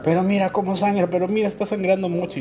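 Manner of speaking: high, loud imitation of a worried mother; mock panic. Husband mimics his wife panicking over the baby's cut, high and loud. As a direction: fret over the blood in an exaggerated high voice.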